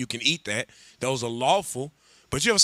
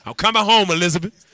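loud, higher cry of a cow giving up; hammed-up cow calling out to Elizabeth as it's slaughtered; dying cow's cry; 3 semitones higher, 7 dB louder than usual. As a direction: call out to heaven like a cow going home. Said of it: "Just go".

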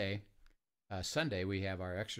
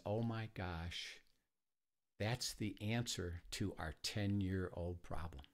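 slow, subdued quote of a moved woman; retold tearful realization; 4 dB quieter, slower than usual. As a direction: retell her breakthrough slowly and softly, without sobbing. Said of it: "she starts crying and bawling".

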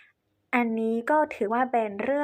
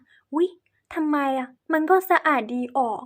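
high, loud, slowed "oops, why not?"; surprised objection; 3 semitones higher, 4 dB louder than usual. Pretend. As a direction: act puzzled and surprised. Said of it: "บางคนอาจจะคิดว่า". (ทำเสียงแปลกใจ สงสัย)

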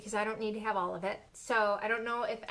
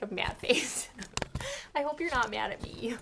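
half-whispered with a breathy giggle. Real, not acted. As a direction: whisper it sheepishly to herself. Whispered aside about viewer.

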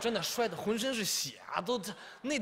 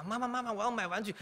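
put-on whiny kid; 6 semitones higher than usual. 孩子缠着妈妈要玩具.

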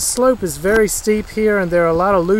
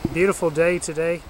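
panting while climbing uphill; breathless, talking between breaths; 3 dB quieter than usual. Real, not acted. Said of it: "If I sound like I'm out of breath, it's because I am climbing".

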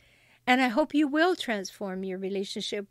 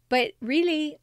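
whispered aside; 4 semitones higher, 5 dB louder than usual. Real, not acted. Host confiding to listeners, whispered.

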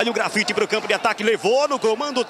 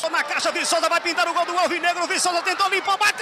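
narração empolgada; 5 semitones higher than usual. Real, not acted. Lance de gol na narração.

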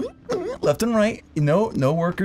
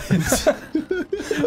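sudden high wheezing laugh; high burst of laughter; 12 semitones higher than usual. Real, not acted. Laughing at the idea of asking how she knew.

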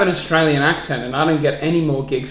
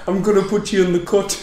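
botched Brummie, a bit softer; Birmingham accent; 3 semitones higher, 6 dB quieter than usual. Shown as a demonstration. Guest persisting for a laughing host, botched Birmingham accent. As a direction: attempt Brummie and drift toward Geordie and Indian. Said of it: "give us a Birmingham accent".

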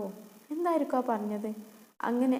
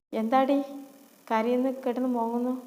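scornful scolding; 4 dB louder than usual. Acted. Stepmother scolds crying girl.

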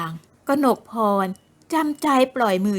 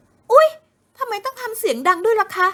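much higher, startled yelp then whine; startled cry; 11 semitones higher, 4 dB louder than usual. Acted. Kanokporn startled by Thira's shout, yelping. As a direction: jump with a yelp. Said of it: "ทำให้หญิงสาวสะดุ้ง".

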